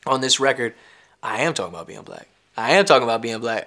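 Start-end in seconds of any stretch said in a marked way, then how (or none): 2.6-3.6 firm louder repeat. Shown as a demonstration. Repeated with rising force.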